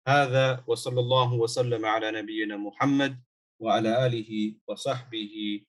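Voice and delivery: quick recited Arabic blessing; closing prayer formula. Real, not acted. Teacher closes the lesson with a blessing, recited quickly. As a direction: run through the closing blessing briskly.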